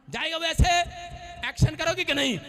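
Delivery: loud, commanding rebuke of evil spirits; deliverance shout. Acted. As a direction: cast it out at full force.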